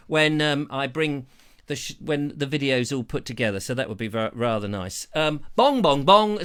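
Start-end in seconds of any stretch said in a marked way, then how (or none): 5.5-6.4 read-out bell bongs. Retold or imitated. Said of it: "says Dave Baker".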